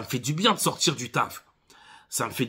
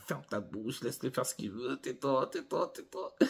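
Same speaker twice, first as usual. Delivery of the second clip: telling himself off; 10 dB quieter than usual. Retold or imitated. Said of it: "Je dis".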